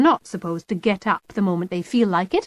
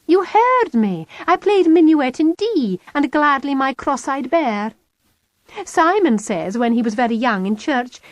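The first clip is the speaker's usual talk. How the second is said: put-on higher bright girl, pointed; Kitty's voice; 5 semitones higher, 4 dB louder than usual. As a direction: needle Mum with cheerful hints.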